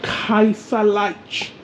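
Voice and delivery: attempted German Kaiserreich, drawn out; careful German pronunciation. Shown as a demonstration. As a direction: stretch out Kaiserreich, trying the German sounds. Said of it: "pronounce it the right way".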